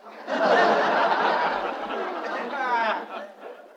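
airy, helpless laugh; breathy laugh. Acted. Father laughing at his neighbour on the phone, airy laugh.

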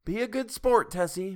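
calling out. A narrator's reading. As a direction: call across the crowd. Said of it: "Missus Delacroix called".

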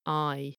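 I gliding from "ah" into "ee"; bendy diphthong. Shown as a demonstration. Narrator showing listeners the sound change, gliding I. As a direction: draw I out so it bends. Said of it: "going from an ah to an i sound".

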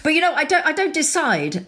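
high, slowed stress on don't; emphatic insistence. Real, not acted. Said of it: "emphatic insistence".

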